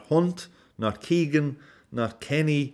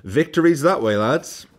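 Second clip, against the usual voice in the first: a hint of an obliging defender, higher; mock generous defender; 7 semitones higher, 4 dB louder than usual. Defenders imagined waving attackers through, mock polite. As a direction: wave them through cheerfully. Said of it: "they opened the door and said".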